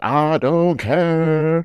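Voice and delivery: very high, nasal, grating whine with stretched words. Describing a woman in a preview, imitating her nasal, grating voice. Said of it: "You see it in the preview where she's like".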